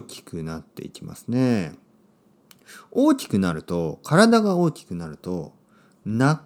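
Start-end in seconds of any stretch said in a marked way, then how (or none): 6.0-6.4 slow teaching word. Shown as a demonstration. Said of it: "泣く声のことを泣き声と言いますね。".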